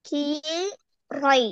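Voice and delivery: very slow, drawn-out கீரை; singsong street hawker. Shown as a demonstration. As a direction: stretch கீரை out long like a chant. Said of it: "திருப்பி ஓதுங்க".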